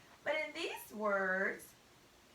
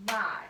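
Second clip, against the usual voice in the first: MY said louder and stronger; one strong, loud beat on MY; accented word; 2 semitones lower, 7 dB louder than usual. Shown as a demonstration. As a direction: put full stress on MY. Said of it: "We say that word louder, longer, and stronger".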